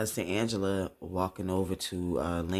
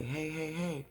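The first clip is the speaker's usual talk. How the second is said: higher, soft-edged "hey"; gentle checking; 7 semitones higher, 4 dB quieter than usual. Retold or imitated. Tyree gently touching her face, concerned. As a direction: gently check if she's okay.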